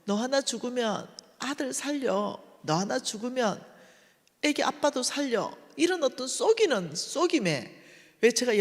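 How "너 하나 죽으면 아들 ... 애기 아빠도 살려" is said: Satan's whisper. Retold or imitated. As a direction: lure her gently like a deceiver. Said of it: "사탄이 나를 속인 거예요". (속삭이듯 유혹하는 사탄의 목소리)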